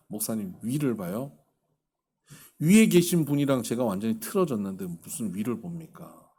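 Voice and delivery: imitating a despondent, incredulous reply; mild mock disbelief, drained; hollow scoff. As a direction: quote him with a low, deflated scoff. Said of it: "허탈하게 웃으면서 이렇게 얘기를 합니다".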